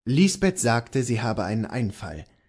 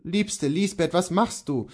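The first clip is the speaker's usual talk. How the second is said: higher, gently concerned husband; dismayed; 6 semitones higher than usual. Acted. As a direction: ask your wife in mild dismay. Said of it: "Kohlhaas sagte betroffen".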